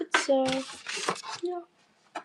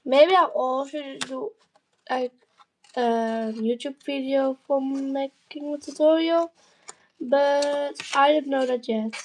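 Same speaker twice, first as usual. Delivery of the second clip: blocked nose. Real, not acted. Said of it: "my nose is blocked, so my voice is a bit different".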